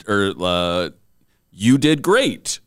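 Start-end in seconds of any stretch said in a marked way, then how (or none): 1.5-2.6 great lifted high and slow like a question; upward inflection. Retold or imitated. MC coach mocking uncertain praise, rising question tune. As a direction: drag it out and rise on great. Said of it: "ending with this upward inflection".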